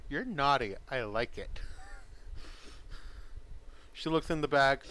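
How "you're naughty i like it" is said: playful, lightly smirking approval. Acted. Game master's character approving the player's comment, smirking. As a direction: answer a tease with a little smirk. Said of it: "gives you a little smirk as well".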